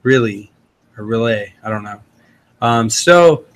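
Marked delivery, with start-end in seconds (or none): 0.0-0.5 "really" said RILL-ee; "really" offered as one option; alternative pronunciation. Shown as a demonstration. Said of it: "is pronounced really shrimp". 1.0-1.5 "relay" ending in an AY sound; "relay", offered as another option; alternative pronunciation. Shown as a demonstration. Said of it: "everyone down this way says".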